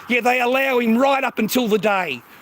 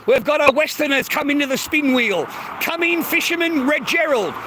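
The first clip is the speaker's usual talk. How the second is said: higher-pitched mock play-by-play; hammed-up arrival call, pitched up; mock commentator; 4 semitones higher than usual. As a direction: announce the newcomer like a mock commentator.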